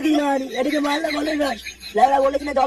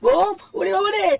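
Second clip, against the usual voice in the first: frightened cry; 4 semitones higher than usual. Acted. Mistri sees the bomb.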